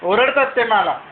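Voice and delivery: words catch on a sob; tearfully telling how he gets scolded; crying complaint. Real, not acted. Child complaining father shouted. (रडत रडत तक्रार)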